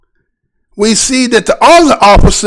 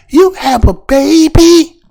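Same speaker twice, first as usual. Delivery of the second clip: mock officer; 5 semitones higher, slower than usual. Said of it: "Did, did y'all hear that?".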